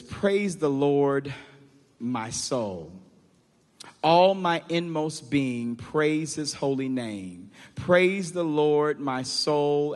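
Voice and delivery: scripture reading. Real, not acted. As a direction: read the psalm slowly, pausing after each phrase.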